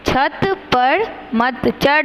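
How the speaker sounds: put-on रजत घड़ी पहन spoken slowly for children to repeat; slow model sentence. Shown as a demonstration. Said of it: "मेरे साथ दोहराएंगे". (बच्चों के लिए धीरे-धीरे बोलिए)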